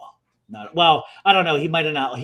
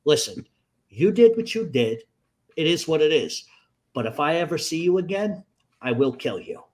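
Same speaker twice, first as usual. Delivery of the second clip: cold threat. Retold or imitated. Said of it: "I said".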